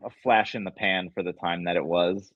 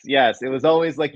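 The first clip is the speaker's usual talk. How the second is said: ordinary talk, nothing marked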